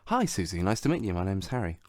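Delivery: talking while chewing; crunching a pepper. Real, not acted. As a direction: mouth full of crunchy pepper. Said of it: "I'm crunching on a pepper".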